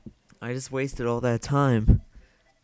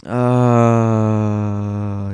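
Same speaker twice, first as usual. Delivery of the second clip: frustrated groan; 8 dB louder than usual. Real, not acted. Frustrated cry during play.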